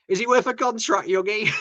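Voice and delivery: imitating a shout from the crowd; retold shout. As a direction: call it out like a heckler. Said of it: "someone did shout".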